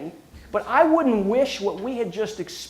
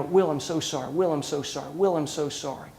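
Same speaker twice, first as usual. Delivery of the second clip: soft, lower, hushed apology said over and over; imitating tearful coworkers; 4 semitones lower, 5 dB quieter than usual. Coworkers in tears apologizing to Will, hushed and sad. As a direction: quietly voice a grieving coworker's repeated sorry.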